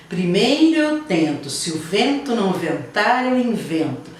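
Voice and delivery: poem read with a lilting rhythm; rhythmic poem reading. Shown as a demonstration. Teacher reads the poem aloud for the class, in rhythm. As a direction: read it out to show its music. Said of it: "Quando ele fala assim".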